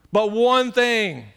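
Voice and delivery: "one" said slowly and heavily, "one thing" drawn out; slow right down on "one thing"; stress on one. Shown as a demonstration. Preacher driving home the single point, slow stress. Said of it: "preacher stressing one thing".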